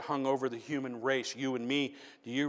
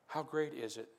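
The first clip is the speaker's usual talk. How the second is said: hushed preaching; 11 dB quieter than usual. Real, not acted. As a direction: draw them in almost under the breath. Quiet reflective sermon passage.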